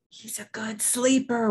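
breath-only stage whisper. A narrator's reading. Papa praises the sleeping baby, whispering. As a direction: whisper it with proud emphasis. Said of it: "whispered Papa".

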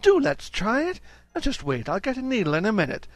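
cooing Mrs Jones. Acted. Mrs Jones to Mrs Brown showing the doll dresses, cooing. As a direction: delight in the tiny dresses.

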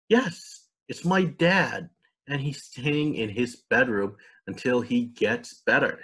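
a hint of a little girl explaining; young girl. Young girl Sasha speaks.

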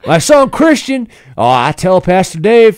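put-on high, loud Southern country guy accent. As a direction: holler it in a rowdy Southern accent. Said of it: "like this Southern Midwest guy".

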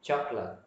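CHOCOLATE with the middle vowel skimmed, like "chok-lat"; middle syllable glided over. Shown as a demonstration. Teacher models the word for learners, middle syllable glided over. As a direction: say "Chocolate" in two beats, barely touching the middle. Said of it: "ở giữa đọc lướt luôn".

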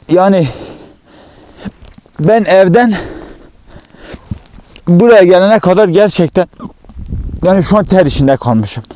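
breathless after walking uphill; panting, words pushed out; out of breath. Real, not acted. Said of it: "Nefesim kesildi".

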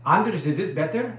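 put-on a half-hearted Danish accent; mock Danish accent. Host asks Anders if his Danish accent improved. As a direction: try out a Danish lilt for the viewer. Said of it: "Am I talking more Danish?".

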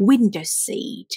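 "window seat" with stress on WIN; stress on first syllable. Shown as a demonstration. Teacher showing students which syllable to stress, WIN-dow seat. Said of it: "stress ที่พยางค์แรก".

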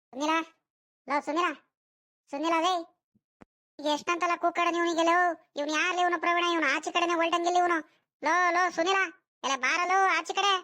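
impatient call to a friend outside his house. Acted. Boy calls his friend Sunila to come out, calling out impatiently.

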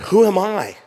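Moses asking in self-doubt. Acted. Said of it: "Moses said to God".

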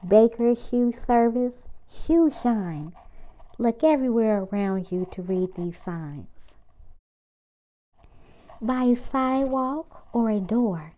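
lively picture-book read-aloud; reading to children. Acted. Reading a picture book aloud to kids, lively and bouncy. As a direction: read it out brightly for little kids.

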